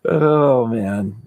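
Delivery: normal talking voice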